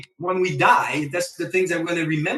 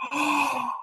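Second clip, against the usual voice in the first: grateful; 3 semitones higher than usual. Retold or imitated. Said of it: "I go".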